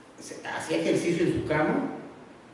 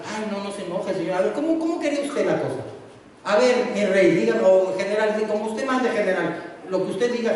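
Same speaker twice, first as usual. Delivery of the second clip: mock worried prophet; 3 semitones higher than usual. Eliseo bien preocupado.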